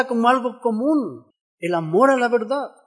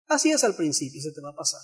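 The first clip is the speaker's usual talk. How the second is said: low, hushed quote, sinking away at the end; retold discouragement; 7 semitones lower, 10 dB quieter, much faster than usual. Longtime church member discouraging the preacher, retold low and hushed. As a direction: imitate a dismissive remark, dropping very soft.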